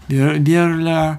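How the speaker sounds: "burglar" slow, with sounds mushed together; garbled Scottish burglar. Retold or imitated. Showing Scots unable to say it, "burglar" slurred slowly. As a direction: stumble through "burglar" in a Scottish accent. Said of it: "not being able to say burglar".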